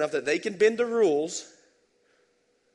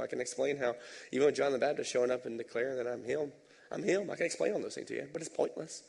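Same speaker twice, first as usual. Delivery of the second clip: calm Jesus; 6 dB quieter, faster than usual. Retold or imitated. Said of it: "Jesus is like".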